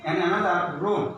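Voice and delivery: slow "robe" with a narrowed, rounded O. Shown as a demonstration. Teacher contrasting rob and robe for learners. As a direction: stretch "robe" out, lips pressed round. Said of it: "ওটা চেপে যাবে একটু".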